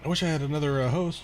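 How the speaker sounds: talking through hiccups; hiccuping mid-sentence. Real, not acted. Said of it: "Goddamn hiccup".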